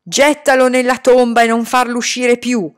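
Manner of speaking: loud wailing order; howling demand. Acted. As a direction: scream for him to be buried. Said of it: "ululò la padrona".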